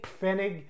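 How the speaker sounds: Pfennig with the P sounded before the f; German Pfennig, both p and f audible; P pronounced. Shown as a demonstration. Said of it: "P's are pronounced in German".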